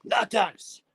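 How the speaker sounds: loud, high, slow-drawn call; shout out the window. Acted. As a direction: bellow it to the bin men outside. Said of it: "I'm gonna shout at them and say".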